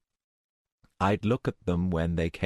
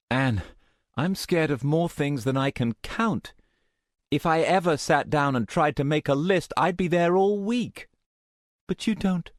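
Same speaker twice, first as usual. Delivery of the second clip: laughing; 11 semitones higher than usual. Acted. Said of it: "I laughed out loud at that".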